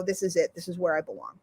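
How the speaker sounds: soft inner voice. Retold or imitated. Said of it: "my heart sings and I go".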